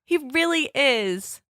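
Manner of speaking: pleading goddess voice. Pretend. Voicing Hathor pleading for Ra.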